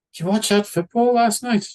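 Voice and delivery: high, cheery small-talk voice; high friendly grandfather. Retold or imitated. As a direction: pitch it up and friendly. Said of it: "He's like".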